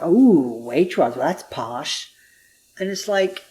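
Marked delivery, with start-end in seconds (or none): 0.0-2.1 exaggerated swooping "ooh", then dropping away; mock-impressed. American mimicking English reaction to her Waitrose shopping, mock-impressed. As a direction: imitate someone teasing about a posh shop.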